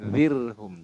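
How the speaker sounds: "zirhum" drawn out with a smile; light tarkik r in "zirhum"; smiling thin r. Shown as a demonstration. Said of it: "kayak orang tersenyum tuh".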